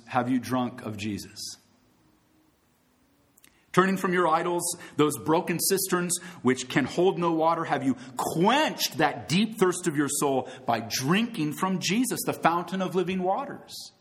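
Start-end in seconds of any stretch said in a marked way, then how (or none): 3.7-13.9 rising preacher's appeal; soapbox orator. Acted. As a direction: plead with the crowd.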